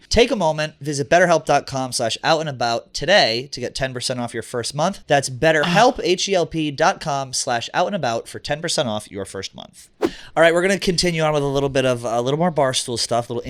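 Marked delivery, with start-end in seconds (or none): 0.1-9.9 ad read. Acted. Sponsor read.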